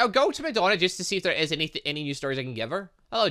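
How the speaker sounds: usual speaking voice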